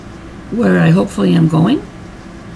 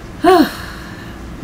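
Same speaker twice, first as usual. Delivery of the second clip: emotional sigh; 9 semitones higher, 4 dB quieter than usual. Real, not acted. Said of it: "sorry I got a bit emotional there".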